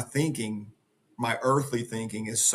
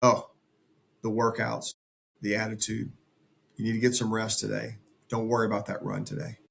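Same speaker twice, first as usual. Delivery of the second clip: coaxing inner voice; 2 semitones lower, 3 dB quieter than usual. Acted. Inner voice tempting him to skip the morning run, coaxing. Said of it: "And that voice says".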